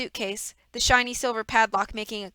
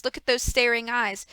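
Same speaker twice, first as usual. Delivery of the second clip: a hint of a smug, fake-sorry villain; lightly voiced villain. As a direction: play the false grief of a schemer. Reader voices villain Stefano.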